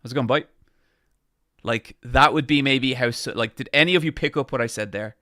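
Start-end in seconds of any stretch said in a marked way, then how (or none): 0.0-0.4 a light fast Irish accent; tossed-off Irish greeting, mildly Irish; lightly done speedy Irish accent. Shown as a demonstration. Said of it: "full speedy Irish is like".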